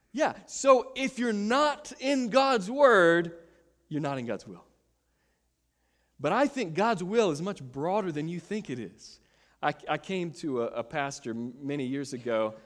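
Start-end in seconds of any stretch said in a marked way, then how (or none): none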